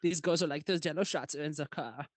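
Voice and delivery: giggly German-accented retelling; mock German accent. Shown as a demonstration. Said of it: "I'll read in the German accent".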